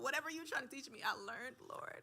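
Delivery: high, loud pleading prayer; mock prayer. Guest acting out her prayer to God, high and loud. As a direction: beg God to stop the lesson, high. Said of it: "I was like".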